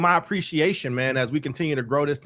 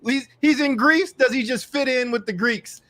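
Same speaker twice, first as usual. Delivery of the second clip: playful teasing; 9 semitones higher, 6 dB louder than usual. Real, not acted. Teasing about Omar's travels.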